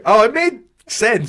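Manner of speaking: no belief. Retold or imitated. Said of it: "said with no belief".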